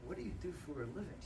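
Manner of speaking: quick question. Retold or imitated. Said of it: "I said to him one time".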